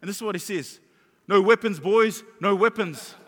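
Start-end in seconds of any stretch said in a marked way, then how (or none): 1.3-3.1 loud imitated shout to the boys; yelled warning. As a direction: call out a warning, re-enacted. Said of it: "he yells out to them".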